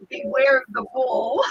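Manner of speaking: a startled cry at the warning; alarmed reading of sign. Retold or imitated. Woman reading a sign in the dark, alarmed. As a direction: read the sign out with a jolt of alarm.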